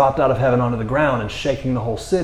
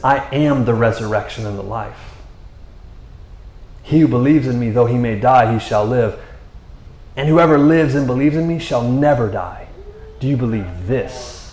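solemn quoted Jesus; 2 semitones lower than usual. Retold or imitated. Preacher quotes Jesus answering Martha, lightly solemn.

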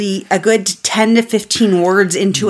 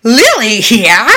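high, slow, louder squeal; creepy doll voice; 4 semitones higher, 5 dB louder, much slower than usual. Retold or imitated. Co-host voicing the evil friend doll, creepy squeal. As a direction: draw out the name like an evil doll.

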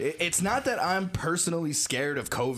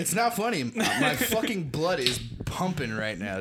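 anger turning to laughter. Real, not acted. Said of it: "a pretty good fit of rage".

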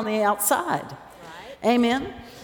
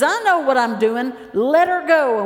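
insistent command; 4 semitones higher, 5 dB louder than usual. Retold or imitated. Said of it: "And he says".

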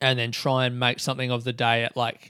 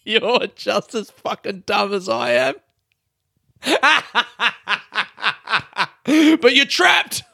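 playful yell; 5 semitones higher, slower than usual. Real, not acted. Host teasing listeners into the mic, playful yell. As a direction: taunt the listeners, half laughing. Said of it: "sorry for yelling into the mic then".

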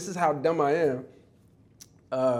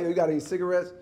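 put-on kid trying to be cool; 4 semitones higher, faster than usual. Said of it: "trying to be cool".

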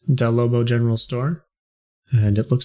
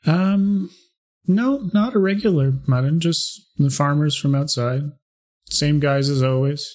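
higher shopkeeper voice; 5 semitones higher than usual. Acted. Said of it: "She says".

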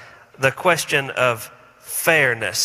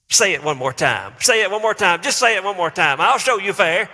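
mock parental threat; 5 semitones higher than usual. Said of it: "the first way that I respond is this".

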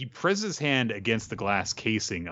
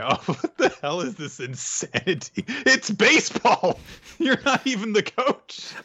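exasperated squeal; 13 semitones higher than usual. Pretend. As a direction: squeal in disbelief at the insanity. Mocking the over-the-top reaction.

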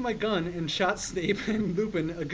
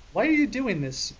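mock angry; 5 semitones higher, 4 dB louder than usual. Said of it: "Lupin said angrily".

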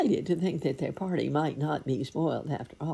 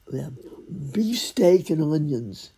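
blurted answer; 2 semitones higher, 6 dB louder than usual. Acted. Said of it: "he said suddenly".

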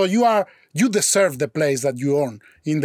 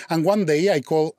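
ordinary talk

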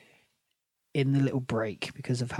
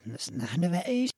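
reversed audio clip; garbled backwards-sounding words; backwards speech; 3 semitones higher than usual. Shown as a demonstration. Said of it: "So, backwards".

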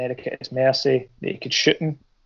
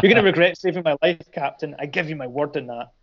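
mock villain threat. Flag Smasher warns Captain America, quick mock villain threat. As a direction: rattle off the threat with mild mock menace. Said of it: "I don't know why I'm doing that when he's Swiss".

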